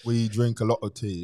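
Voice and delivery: British accent, easy and conversational. Shown as a demonstration. Guest answering a tea and crumpets question, British accent. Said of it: "talk British for a little bit".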